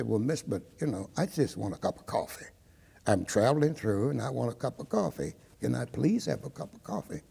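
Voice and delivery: soft, polite, composed request; dignified, no hostility. Retold or imitated. Customer politely asking waitress for coffee, dignified and soft. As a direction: retell a calm, courteous appeal without any edge. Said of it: "in a dignified manner, no sign of hostility".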